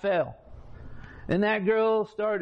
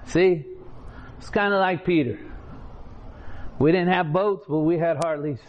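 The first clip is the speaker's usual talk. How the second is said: preaching. Real, not acted. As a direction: preach it out with force. Preaching loudly to audience.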